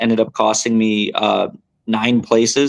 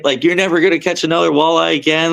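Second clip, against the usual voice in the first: mock self-scolding; 5 semitones higher than usual. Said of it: "cussing myself out".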